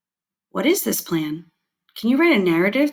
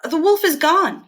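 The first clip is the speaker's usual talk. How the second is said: explaining; 7 semitones higher, 3 dB louder than usual. A narrator's reading. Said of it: "he explained".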